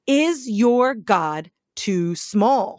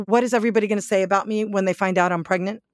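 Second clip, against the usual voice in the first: worried what-if; 3 semitones lower, much faster than usual. Retold or imitated. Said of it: "Wouldn't we all go".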